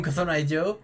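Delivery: usual speaking voice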